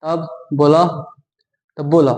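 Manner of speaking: "बोलो" said as bola with a held last vowel; lengthened final syllable. Shown as a demonstration. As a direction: draw out the end of "बोलो", Bhojpuri style. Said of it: "अब ल को थोड़ा हमको लंबा बोलना है".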